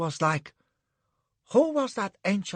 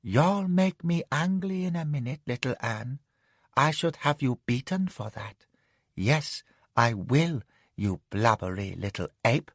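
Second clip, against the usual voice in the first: lazy threat. Acted. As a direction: threaten him idly. Madam threatens.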